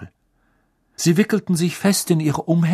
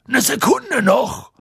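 higher, louder and drawn out; calling out; 12 semitones higher, 4 dB louder, slower than usual. A narrator's reading. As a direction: hold them back with a shout. Hagrid calling them back.

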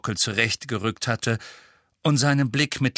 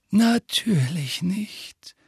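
mild; 8 semitones higher, much slower than usual. A narrator's reading. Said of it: "sagte Dumbledore milde".

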